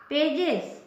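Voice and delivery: पेजेस said with a clear z sound at the end, "pay-jez"; teaching pronunciation. Shown as a demonstration. Teacher to students, demonstrating the ending clearly. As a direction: spell out पेजेस slowly, landing on the final ez. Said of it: "इसको ज कह रहे हैं हम".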